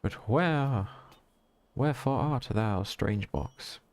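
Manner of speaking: a hint of stage tragedian; mock Shakespearean. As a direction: playfully declaim it like a bard. Mock-Shakespearean call to a box.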